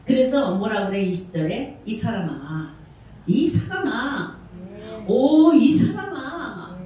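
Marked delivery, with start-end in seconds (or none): 1.8-6.8 slow, rising, louder cry of 이 사람아; drawn-out lament. Acted. God rebuking the man who questions him, drawn-out lament. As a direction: plead with a long sorrowful call. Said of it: "이렇게 지금 말하죠".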